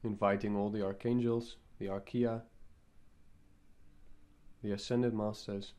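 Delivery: calm invocation with long pauses between phrases; guided meditation. Acted. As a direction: lead them gently into the meditation, phrase by phrase.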